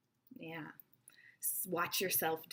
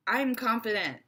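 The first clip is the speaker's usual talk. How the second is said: louder, self-assured declaration; confident; 3 semitones higher, 6 dB louder than usual. Acted. Speaker showing an audience what people see, confident. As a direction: say it firmly, projecting assurance. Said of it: "what people see is".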